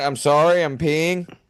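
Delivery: put-on pleading, apologetic tone. Retelling how a man lay on the floor after being tased: imitating a man lying on the floor apologizing. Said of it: "he lays in the floor going".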